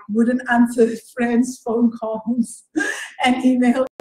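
real laughter breaking into the words; amused confession, broken by chuckles; laughing. Real, not acted. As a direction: laugh between phrases while admitting it. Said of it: "I'm laughing 'cause".

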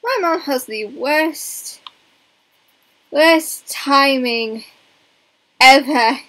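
exasperated. Real, not acted. Exasperated at mom.

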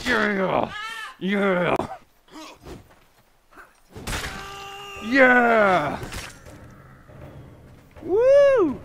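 loud high whoops of triumph; cheering. Real, not acted. Gamer celebrating a win, loud cheering.

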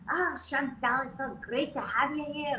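high-pitched little Irish guy; Irish accent. Retold or imitated. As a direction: greet in a high, put-on Irish lilt. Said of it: "he's the little Irish guy".

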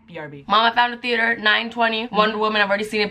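normal talking voice

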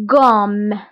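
غوم said with French r; French gomme. Shown as a demonstration. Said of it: "كتقرا".

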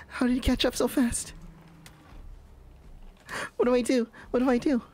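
very high, squealing panic; frightened. Real, not acted. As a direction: squeal helplessly as the chaser closes in. Pursuer has caught up.

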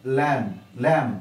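लैम said slowly with no B; correct pronunciation. Shown as a demonstration. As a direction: say लैम with a silent B. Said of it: "लैंप नहीं बोलते हैं". (लैम, बिना ब के)

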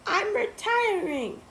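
high, loud teacher voice; stern teacher. A narrator's reading. Stern teacher announces news.

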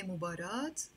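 "مباراة" ending in a sounded t, mubarat; long ah then t at the end of "مباراة"; Lebanese T ending. Shown as a demonstration. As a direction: close "مباراة" on an audible t. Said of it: "In Lebanese Arabic, we say".

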